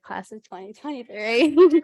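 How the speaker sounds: loud, slow celebratory call; cheering. Real, not acted. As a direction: shout it out in triumph. Closing cheer to classmates.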